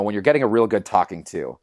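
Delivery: ordinary talk, nothing marked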